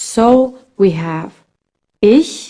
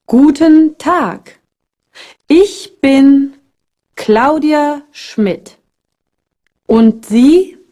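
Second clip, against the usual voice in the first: Claudia answering; 4 semitones higher, slower than usual. Acted. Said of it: "Claudia answered".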